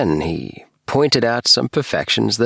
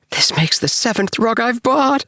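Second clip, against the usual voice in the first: breathless whisper. A narrator's reading. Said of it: "he whispered to me breathlessly".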